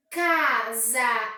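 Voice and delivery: CASA em duas sílabas esticadas, CA-SA; separado em sílabas. Shown as a demonstration. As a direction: pronuncie "Casa" bem separado, CA... SA, com força. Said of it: "eu tenho duas sílabas". (dividido em sílabas, CA-SA)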